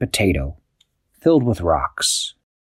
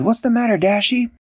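True worried; 14 semitones higher than usual. Acted. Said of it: "True said".

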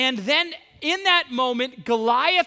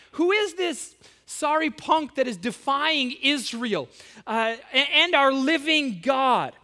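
acted indignation, voice pitched up; outraged; 4 semitones higher than usual. Young David talking among the soldiers about Goliath, outraged. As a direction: challenge them with raised pitch and some heat. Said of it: "is outraged by this".

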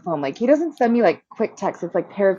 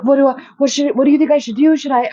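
higher, louder mock panic; retold fretting; 7 semitones higher, 4 dB louder, faster than usual. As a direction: imitate someone flustered asking what to do. Brother frets over leak, retold.

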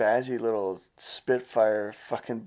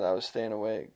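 whisper; 5 dB quieter than usual. Real, not acted. Tired on the bus.

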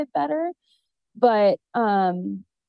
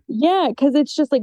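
a real laugh breaking out, louder, higher; laughing through tears; 4 semitones higher, 5 dB louder than usual. Real, not acted. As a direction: laugh off the tears with a loud bright yes. Laughs after tearing up on podcast.

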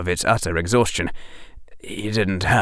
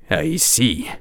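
gentler growl; 4 semitones higher than usual. A narrator's reading. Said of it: "in a much gentler growl".

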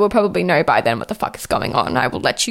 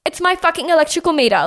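incredulous outrage; 7 semitones higher than usual. Retold or imitated. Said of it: "I'm just like".

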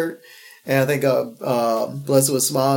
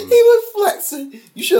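laughing. Real, not acted. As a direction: crack up mid-sentence. Laughing at photo.

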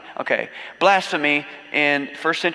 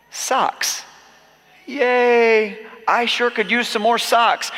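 sarcastic; 7 semitones higher, much slower than usual. Pretend. Mock disappointment over a present.

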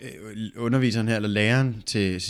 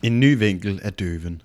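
slow, measured title announcement; story reading; 3 semitones lower, 4 dB louder, slower than usual. A narrator's reading. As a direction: read out the title deliberately.

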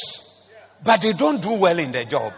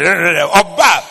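calling out loudly; 9 dB louder than usual. Retold or imitated. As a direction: bark the name across the house. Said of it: "He said".

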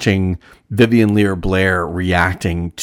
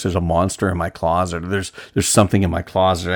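flat, deadpan monotone; faster than usual. Retold or imitated. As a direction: say it flat and emotionless, like a creepy child. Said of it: "says something in a very monotone voice".

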